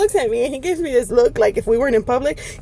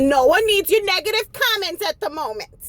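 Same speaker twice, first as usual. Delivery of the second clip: indignant retort; 5 semitones higher than usual. Retold or imitated. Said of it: "I said".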